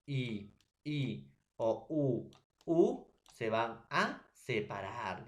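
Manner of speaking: "I, I o U, U" with each vowel held long; drawn-out vowels. Shown as a demonstration. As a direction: sound the vowels out slowly, one by one. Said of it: "teacher spells out vowel examples". (vocales alargadas y lentas)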